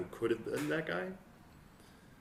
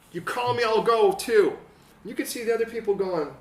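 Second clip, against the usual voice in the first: loud and high, urgent sermon voice; fiery preaching; 9 semitones higher, 9 dB louder than usual. Acted. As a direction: drive it home to the congregation. Preaching at full force.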